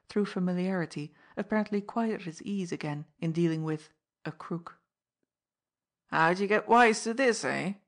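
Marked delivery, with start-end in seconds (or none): 6.1-7.7 angry fence demanding answers; fierce demand. Acted. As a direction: bark it at the masked man. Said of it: "he demanded fiercely".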